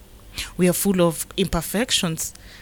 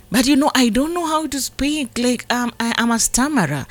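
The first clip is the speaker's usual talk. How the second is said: Moses protesting; 3 semitones higher than usual. Acted. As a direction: voice Moses' nervous excuses, climbing in pitch. Preacher voices Moses protesting.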